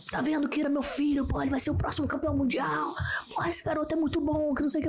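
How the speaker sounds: pai se gabando, voz mais alta; imitando o pai orgulhoso. Retold or imitated. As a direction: imite o pai todo orgulhoso do filho. (pai se gabando do filho no campeonato, voz mais alta)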